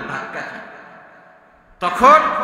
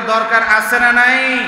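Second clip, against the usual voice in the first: raised, slower call to the crowd; louder call; 3 semitones higher, 5 dB louder, slower than usual. Real, not acted. Preacher demanding a louder reply, calling out. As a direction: push the question out louder. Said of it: "আরো জোরে বলেন".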